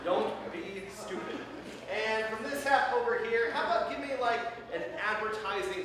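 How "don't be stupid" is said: slow repeat. Shown as a demonstration. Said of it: "repeat line".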